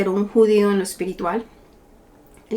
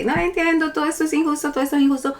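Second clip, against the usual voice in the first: imitating Job's complaint; 7 semitones higher, faster than usual. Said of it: "a cierto punto como que".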